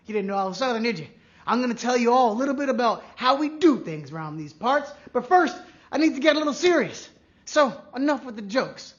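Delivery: hammed-up Southern cowboy accent. Host in cowboy hat welcomes players to a trivia night, cowboy accent. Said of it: "this horrible accent".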